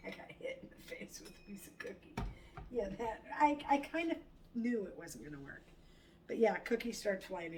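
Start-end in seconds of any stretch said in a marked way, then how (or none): 0.1-2.1 whisper. Real, not acted. Whispered after cookie hit.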